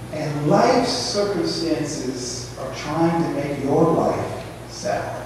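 slow, soft, solemn preaching; slow hushed preaching. Acted. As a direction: draw the congregation in quietly, slowly. Slow quiet preaching passage.

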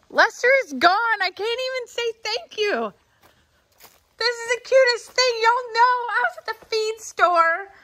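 high-pitched, gushing delight; overjoyed and squeaky high; thrilled squeal. Real, not acted. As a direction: squeal over the cutest surprise gift. Thrilled discovery of tiny tractor gift.

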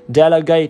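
Delegate with an open e in the first syllable; model pronunciation. Shown as a demonstration. Teacher showing the e sound in Delegate, model pronunciation. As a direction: say "Delegate" slowly, stressed e first. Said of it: "là âm e này".

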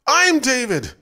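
high, loud furious yell. A narrator's reading. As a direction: yell it like a beast awakening. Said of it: "he screamed again".

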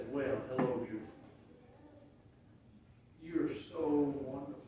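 greeting the Bible like a beloved, softly; tender greeting. Retold or imitated. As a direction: murmur it fondly to a loved one. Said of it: "I just say".

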